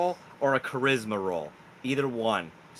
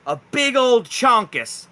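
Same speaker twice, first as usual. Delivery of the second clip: slow, deliberate scene setting; game master narration; slower than usual. Acted. Game master reveals giant raccoons at the campfire, slow narration. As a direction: draw out the reveal piece by piece.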